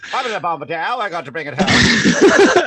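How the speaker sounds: wartime pilot over the radio; clipped radio pilot call. Retold or imitated. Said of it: "you've even got the pilot voice".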